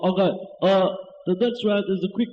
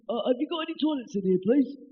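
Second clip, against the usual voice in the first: higher, fast, desperate mock plea; hammed-up desperation to run off; urgent toilet plea; 3 semitones higher than usual.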